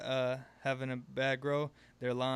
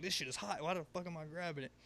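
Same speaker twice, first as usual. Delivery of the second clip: imagined grumble; 3 semitones higher, 7 dB quieter than usual. Retold or imitated. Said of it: "wondering if he's sitting there, like, saying".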